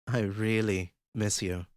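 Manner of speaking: breathed. Acted. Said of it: "Regent breathed into the phone".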